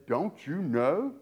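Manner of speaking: slow, pointed sarcastic question; drawn out, letting the sting land; sarcastic rebuke. Retold or imitated. Preacher voicing Paul's rebuke to Corinthians, slow sarcastic question. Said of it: "it should hit them exactly the way it sounds".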